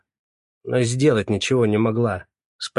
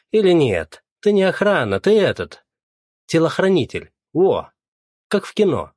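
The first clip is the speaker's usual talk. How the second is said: loud, much higher mocking yell; 7 semitones higher, 5 dB louder than usual. A narrator's reading. Feofanov yelling at Andrey in front of everyone, mocking. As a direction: shout him down with scorn. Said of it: "уже не говорил, орал".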